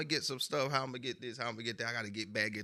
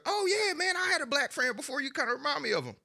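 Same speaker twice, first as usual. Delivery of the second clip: high voice of a white guy; high, chummy voice for a white buyer; mimicking white people; 14 semitones higher than usual. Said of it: "you know how white people are".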